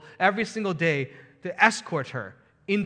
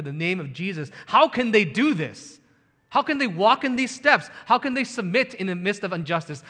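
louder and higher, preaching hard; rising sermon fervour; 4 semitones higher, 4 dB louder than usual. Acted. Preacher rousing his congregation, louder and higher. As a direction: drive the questions home from the pulpit. Preacher builds to full force.

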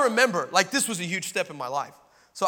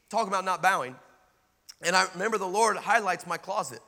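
usual speaking voice

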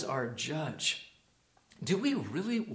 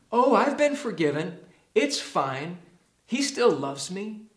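blithe excuse-making; 3 semitones higher, 4 dB louder than usual. Acted. Voicing a careless believer's excuse.

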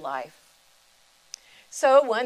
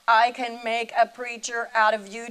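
loud proclamation; 3 semitones higher, 7 dB louder than usual. Retold or imitated. The voice of God proclaiming.

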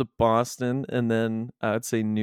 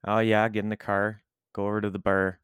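Nova Scotia accent hitting hard words; Scotian accent. Shown as a demonstration. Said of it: "hitting the hard, them hard words".

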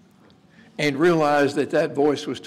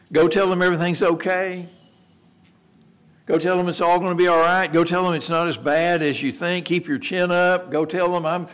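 higher, upbeat questioning pep talk; mock-positive reassurance; 4 semitones higher than usual. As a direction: offer comfort you are about to knock down. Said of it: "The message isn't that positive".

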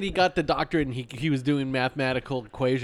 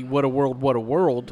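Wicked Witch quote. Retold or imitated. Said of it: "But if I say".

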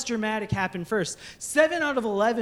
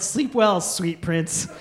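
mock tender angel; 5 semitones lower, slower than usual. Angel bids the sleeping parent goodnight, mock tender. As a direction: lull the sleeper gently, hammed up. Angel kisses your forehead.

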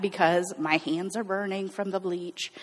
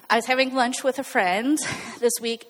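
louder, closer to mic; 4 semitones higher than usual. Real, not acted. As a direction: restart louder, right into the microphone. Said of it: "I'm really bad at this microphone".

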